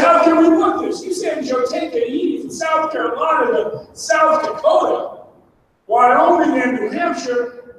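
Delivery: slow, drawn-out disbelief, imitating skeptical lawyers; mock incredulous. Lawyers questioning the activists' choice of envoy, mock incredulous. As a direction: imitate a lawyer spelling out a bad idea slowly.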